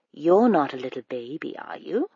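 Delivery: lightly voiced smooth-talking stranger, sweetly persuasive; a hint of a too-friendly stranger luring a child; coaxing stranger. Stranger teasing the princess.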